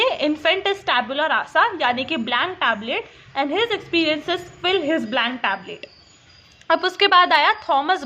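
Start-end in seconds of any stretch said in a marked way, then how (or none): 0.0-1.8 very slow, word by word quote; slow dictation. Retold or imitated. Teacher dictating John Locke's line to students, very slowly. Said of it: "इसने क्या बोला John Locke ने". 3.4-5.9 very slow, word by word quote; slow dictation. Retold or imitated. Teacher dictating John Locke's line to students, very slowly. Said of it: "इसने क्या बोला John Locke ने".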